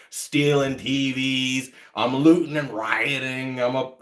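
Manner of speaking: slow, drawn-out list of accusations; weary, slowed-down imitation of accusers; mocking recital. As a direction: stretch out each accusation mockingly. Recites slurs thrown at him.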